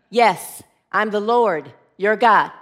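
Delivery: a hint of a low, solemn God; booming voice. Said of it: "It's a booming voice".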